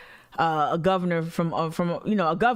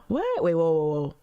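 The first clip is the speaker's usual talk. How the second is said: surprised; 2 semitones lower than usual. Real, not acted. Shocked by a headline.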